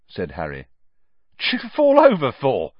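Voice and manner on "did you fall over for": sniggering. Acted. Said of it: "sniggered Stan".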